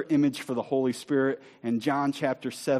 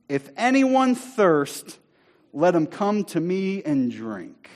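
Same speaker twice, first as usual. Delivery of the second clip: high, loud, drawn-out call, easing off at the end; Jesus proclaiming; 4 semitones higher, 5 dB louder, slower than usual. Acted. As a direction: call out slowly to a whole crowd. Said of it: "That's what Jesus is proclaiming".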